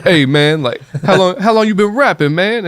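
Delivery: high, exaggerated put-on voice of a prank caller; put-on black voice. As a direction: ham up a fake street voice. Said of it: "doing black voice".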